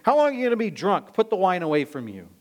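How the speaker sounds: acted-out priestly reprimand; rebuke. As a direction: tell them off sharply, then settle into the order. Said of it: "so he rebukes her and says".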